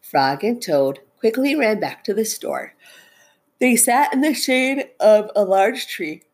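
expressive picture-book narration; storytelling. A narrator's reading. Teacher reads Frog and Toad aloud, storytelling. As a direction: read it out to children, stressing key words.

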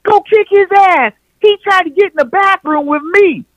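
high, loud shrieking mock girlfriend; screaming girlfriend. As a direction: shriek it up high, egging him on. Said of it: "hanging out the door".

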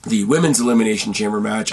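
losing his voice, raspy and strained; voice giving out. Real, not acted. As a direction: talk through a worn-out, raspy throat. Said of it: "I'm sorry I'm losing my voice".

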